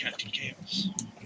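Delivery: soft, unvoiced whisper.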